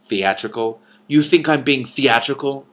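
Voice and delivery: indignant, rising anger; furious. A narrator's reading. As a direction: bristle with offended fury. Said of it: "Antrell said furiously".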